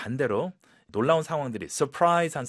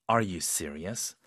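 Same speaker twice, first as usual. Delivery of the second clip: disbelieving; 5 semitones lower, much slower than usual. Shown as a demonstration. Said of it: "믿기 어려운 상황에서는 이런 톤으로".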